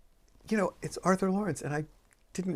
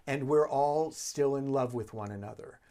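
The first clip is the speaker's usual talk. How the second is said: soft and warm. Retold or imitated. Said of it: "being so soft and warm".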